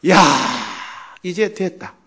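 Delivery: a mild burst of joy, breathing out relief; overjoyed cry of relief. Retold or imitated. Pastor sprawled on the bed, relieved, in mild joy. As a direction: let the relief spill out lightly, not shouting. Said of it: "하면서 막 너무, 너무 기쁘더라는".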